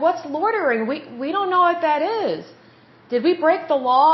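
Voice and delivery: put-on confused kids.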